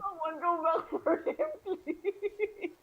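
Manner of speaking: pleading. Pretend. Player pleads to save Harshnag.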